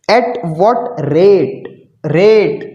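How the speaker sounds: "rate" drawn out and set apart; slow, spaced words, landing firmly on "rate"; stress on rate. Real, not acted. Teacher emphasises the question's key word. ("rate" पर ज़ोर, धीरे-धीरे)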